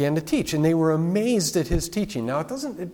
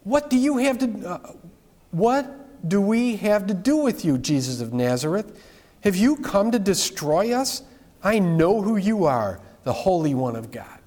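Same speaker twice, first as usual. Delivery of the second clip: raised-pitch quote of an unclean spirit, not a full shout; mild crying out; 4 semitones higher than usual. Retold or imitated. Preacher voices the unclean spirit challenging Jesus, mildly crying out. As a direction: cry it out with restraint, falling on the titles. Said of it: "the spirit cries out".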